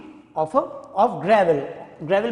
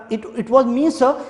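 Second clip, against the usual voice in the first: stammering; 3 semitones higher than usual. Acted.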